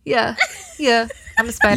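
little high "yeah" ad-lib; a pop singer. Acted. Trying a pop star's voice as a spider, light imitation. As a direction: lightly attempt a singer's little signature yelp. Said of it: "Her, like, little yeah".

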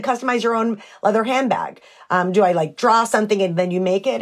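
lightly puzzled asking the shopkeeper; curious question. Retold or imitated. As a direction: ask about "Customize your own leather handbag?" with mild curiosity. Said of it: "I said".

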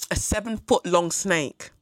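slow, weighing seven-foot-long in disbelief; slow, stunned repetition. Real, not acted. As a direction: let "seven-foot-long" sink in slowly. Repeating snake size in disbelief.

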